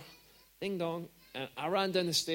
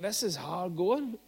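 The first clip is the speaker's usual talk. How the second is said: weary sigh; slower than usual. Real, not acted. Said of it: "I'm like".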